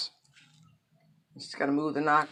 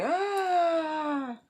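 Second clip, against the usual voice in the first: falling scream; 12 semitones higher than usual. Retold or imitated. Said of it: "as she's screaming".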